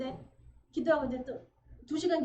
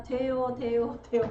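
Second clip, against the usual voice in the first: louder, bright cries of it works; joyful breakthrough; 5 dB louder, slower than usual. Retold or imitated. Believer shouting to congregation it finally works, louder exclaiming. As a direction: exclaim each word with rising joy.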